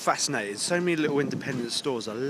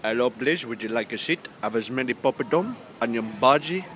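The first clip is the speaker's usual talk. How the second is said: mock Indian accent; 2 semitones lower than usual. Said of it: "the worst Indian accent I've ever done".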